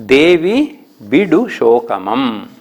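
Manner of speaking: slow, drawn-out verse reading; poem recitation. Shown as a demonstration. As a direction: chant the old Kannada line slowly. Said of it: "ಹದಿನಾರನೇ ಪದ್ಯ". (ನಿಧಾನವಾಗಿ ಪದ್ಯ ವಾಚನ)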